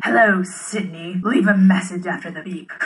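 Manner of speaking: slow, drawn-out creepy caller; Ghostface voice. Acted. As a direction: menace the caller slowly. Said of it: "I'll try a ghost face one".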